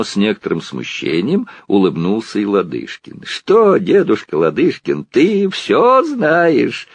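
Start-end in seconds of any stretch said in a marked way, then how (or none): 3.2-6.9 high, slow sly teasing; slyly teasing. A narrator's reading. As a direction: needle grandpa with a sly grin. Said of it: "поддразнил его лукаво Сергей". (Сергей лукаво дразнит дедушку, высоко и протяжно)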